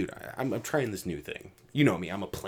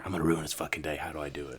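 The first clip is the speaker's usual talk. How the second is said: mock dim schemer; 4 semitones lower, faster than usual. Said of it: "They look at me and they go".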